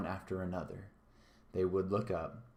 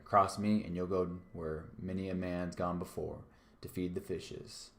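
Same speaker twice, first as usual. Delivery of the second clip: menacing pirate captain, punchy on cross me; a mild growl of a threat; threatening. Acted. Silver threatening Morgan, menacing. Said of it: "cried Silver".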